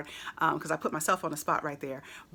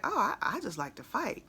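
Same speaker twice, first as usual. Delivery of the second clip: casual, offhand, nothing gangster about it; matter-of-fact; 5 semitones higher than usual. Retold or imitated. Imitating rapper's casual interview line, matter-of-fact. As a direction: toss it off like it's ordinary. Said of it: "he said it so matter-of-factly".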